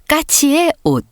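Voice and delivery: plain reading voice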